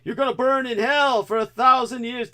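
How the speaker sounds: high, loud, hateful curse; vile hatred. Retold or imitated. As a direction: snarl a damning threat. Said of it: "this kind of vile hatred would come out".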